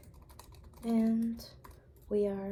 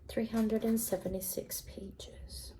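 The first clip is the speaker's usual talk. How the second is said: library whisper. Real, not acted.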